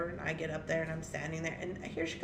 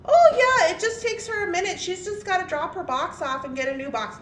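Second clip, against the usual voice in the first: nervous high peacemaker; 9 semitones higher, 6 dB louder than usual. Retold or imitated. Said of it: "he's like".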